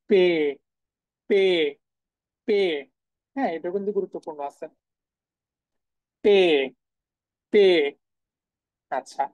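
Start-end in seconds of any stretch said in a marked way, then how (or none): 0.1-2.6 পে said as German P, not পি; German letter name. Shown as a demonstration. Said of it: "পি এর উচ্চারণ তাহলে কি?". 6.2-7.6 পে said as German P, not পি; German letter name. Shown as a demonstration. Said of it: "পি এর উচ্চারণ তাহলে কি?".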